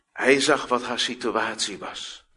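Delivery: normal talking voice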